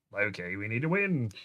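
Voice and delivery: a light Australian accent on Loki, we need to win. Shown as a demonstration. Co-host redoing Thor's line to Loki in a light Australian accent. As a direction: say it like an Aussie brother, lightly.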